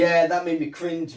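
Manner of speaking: high, loud cringing reaction; cringing excitement. Real, not acted. Reacting to awkward scene.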